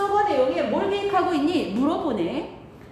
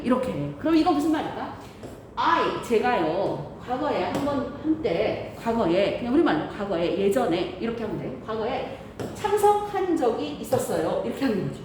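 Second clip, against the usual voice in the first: muffled behind a mask; talking through a mask; through a face mask; 2 semitones lower than usual. Real, not acted. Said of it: "선생님 지금 마스크를 쓰고 말하니까".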